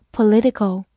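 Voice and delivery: "political" with the stress landing on "li"; stress on the second syllable. Shown as a demonstration. Teacher showing students where "political" is stressed. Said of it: "注意重音放在了第二个音上".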